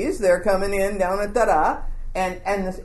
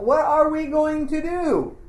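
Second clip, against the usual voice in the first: mock panicked scream; 7 semitones higher than usual. Servant to Elisha facing the army, in acted high panic. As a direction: cry out in acted despair. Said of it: "And he screams out".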